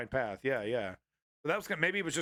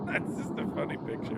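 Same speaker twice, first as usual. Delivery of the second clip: talking through leftover giggles; real suppressed laughter; 2 semitones lower than usual. Real, not acted. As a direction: explain it while still trying not to laugh. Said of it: "I should not be laughing at this".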